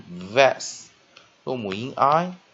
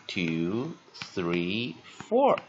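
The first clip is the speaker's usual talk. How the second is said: counting out; 2 semitones lower, much slower than usual. Shown as a demonstration. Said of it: "Four interpuncts".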